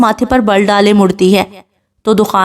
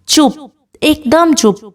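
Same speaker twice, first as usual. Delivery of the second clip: slow, higher-pitched angry silencing; out of patience; 6 semitones higher, slower than usual. A narrator's reading. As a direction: silence her with slow, contained anger. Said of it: "دخان کا صبر جواب دے جاتا ہے". (ضبط ٹوٹنے پر ڈانٹ)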